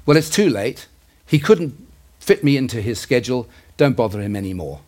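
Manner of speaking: a touch of sarcastic annoyance, retold; lightly acted angry, sarcastic dismissal; mildly angry sarcasm. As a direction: voice the retold reply as a mildly bitter brush-off. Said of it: "a little bit of anger and a little bit of sarcasm".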